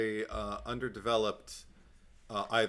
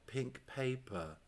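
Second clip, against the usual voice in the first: slow Cockney accent imitating Drusilla; a deliberately bad Cockney accent, drawn out; 10 dB quieter, slower than usual. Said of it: "Without my Cockney accent".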